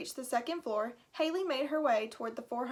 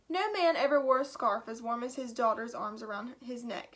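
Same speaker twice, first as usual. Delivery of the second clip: Irish brogue. Acted. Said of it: "in his thick Irish brogue".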